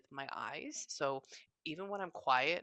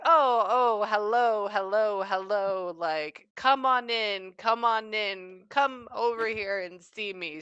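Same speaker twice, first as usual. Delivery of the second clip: effusive imitated greeting, raised and drawn out; warm, welcoming; 4 semitones higher, 6 dB louder, slower than usual. Medium relays a spirit greeting her, warm and welcoming. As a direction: welcome them in eagerly, voice lifted. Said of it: "they're very warm and welcoming".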